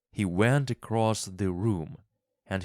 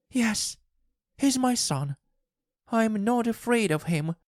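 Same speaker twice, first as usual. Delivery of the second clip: much higher, begging wife; pleading wife; 3 dB louder than usual. A narrator's reading. Wife begs husband for the paw, high and pleading. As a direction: plead for it desperately.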